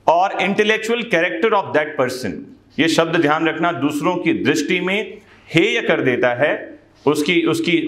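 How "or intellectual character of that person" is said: slow, measured legal reading; slow statute reading. Acted. Teacher reading the statute to students slowly. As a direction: read the law out word by word.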